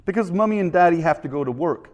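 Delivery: quick put-on Canadian accent; dad rattling off an answer in mock Canadian; attempted Canadian accent, brisk. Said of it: "my best Canadian accent".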